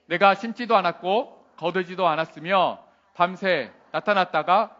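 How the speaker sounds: measured, phrase-by-phrase Bible reading; scripture reading. Acted. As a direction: read the verse out solemnly for all to follow. Reads scripture aloud. (또박또박 끊어 읽는 성경 봉독)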